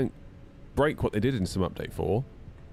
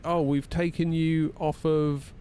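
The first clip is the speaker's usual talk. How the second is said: slow, higher mock official tone; lightly voiced smug company; mock corporate voice; 4 semitones higher, slower than usual. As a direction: parody TikTok's notice. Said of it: "TikTok are like".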